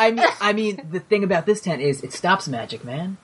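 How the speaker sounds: relaxed laid-back surfer-dude merchant; easy, unhurried chill talk; Matthew McConaughey impression. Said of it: "Matthew McConaughey?".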